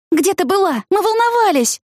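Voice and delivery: high, anxious scolding cry; worried shout. A narrator's reading. Scolding Tina after the search, worried high cries. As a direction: demand answers out of fear. Scolding found runaway friend.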